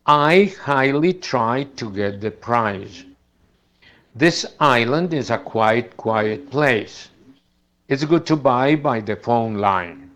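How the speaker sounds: slow, careful English read-aloud; slow model sentences. Shown as a demonstration. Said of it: "se pronuncian como R española".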